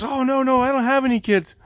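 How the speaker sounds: high, loud imitation of a baffled lady; hammed-up incredulous homeowner; mock bewilderment. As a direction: protest in exaggerated disbelief. Lady denies having kids.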